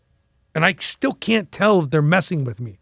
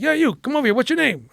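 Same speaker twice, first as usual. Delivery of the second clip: raised-pitch call across the room; retold coach hailing; 8 semitones higher than usual. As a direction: imitate a boss summoning the rookie. Coach calling rookie over.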